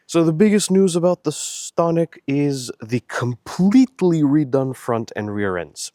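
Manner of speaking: stuffy nose with sniffles. Real, not acted. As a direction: sniffle between phrases. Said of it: "stuffy nose and the sniffling".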